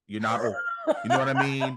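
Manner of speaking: laughing through the reassurance. Real, not acted. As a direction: chuckle while you insist.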